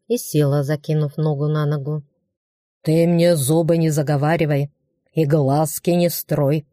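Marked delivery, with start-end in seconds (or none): 2.8-6.7 grumbling orc. Acted. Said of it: "проворчал он".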